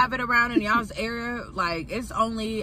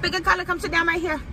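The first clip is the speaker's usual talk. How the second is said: high, fast salon lady voice; rushed salon worker; 6 semitones higher, faster than usual. Retold or imitated. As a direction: hurry them into the chair. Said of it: "looking at you like".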